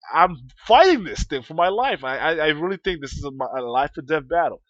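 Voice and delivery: fighting for his life; retold frantic yell. Kid battling a noisy toy, frantic and loud. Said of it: "and I was like".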